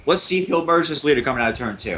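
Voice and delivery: breathing hard into the mic; audible breaths between words; heavy breathing. Real, not acted. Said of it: "I'm sorry for my heavy breathing here".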